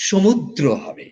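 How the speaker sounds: সমুদ্র drawn out slowly, syllable by syllable; slow demo. Shown as a demonstration. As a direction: spell out সমুদ্র slowly for the student. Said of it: "উচ্চারণটা করতে হবে". (ধীরে ধীরে সমুদ্র উচ্চারণ)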